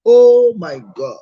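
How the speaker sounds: drawn-out shock as he realises; shocked exclamation. Real, not acted.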